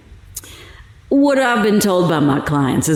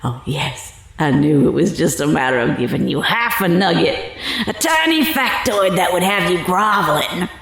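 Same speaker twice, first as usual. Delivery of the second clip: laughing. Acted. Mocking the reporter she has hooked.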